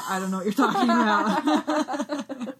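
slow, drawn-out mock denial; insistent denial. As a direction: repeat the denial slowly, hamming it up. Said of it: "Peter just keeps being like".

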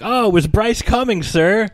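high, innocent mock answer; sly underling. Retelling the booth guy answering his boss, high and innocent. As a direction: play it sweet and sneaky. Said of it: "he's like".

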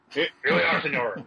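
hammed-up Western gringo voice; old Western-movie gringo. Co-host spoofing the movie guide, hammed-up gringo voice. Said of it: "one of the old gringos out of the mo-, the Western movies".

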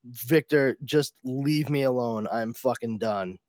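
mock exasperation, falling off as it goes; fed up. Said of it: "it is really kind of like a".

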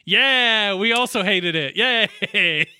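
loud, playful celebration of a shared dislike; mock cheer. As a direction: cheer it out loud, tongue in cheek.

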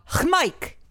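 mock yell. Friend demonstrating the silly yell Mike should use. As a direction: shout your own name as a joke battle cry. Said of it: "You have to yell".

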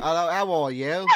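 an attempt at a British accent. Asked by a fellow player for an accent, British accent. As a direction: put on a light British hello. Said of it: "give me a British accent".

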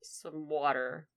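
softly, haltingly polite; composed request. Acted. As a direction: ask politely after a steadying breath, pausing between phrases. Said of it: "take a deep breath".

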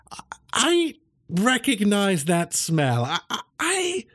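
high, slow wary voice; suspicious professor. Acted. Cat professor sensing danger, high and slow. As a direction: sniff the air, uneasy.

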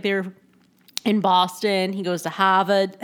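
half-hearted Boston accent; attempted Boston accent. Shown as a demonstration. Podcaster trying out the accent she finds attractive, attempted Boston accent. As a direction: try a Boston accent, not quite landing it. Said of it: "I can't do it".

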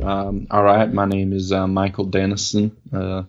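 lightly imitated Kentucky accent. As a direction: introduce yourself in a put-on Kentucky accent. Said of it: "sound like a Kentucky guy".

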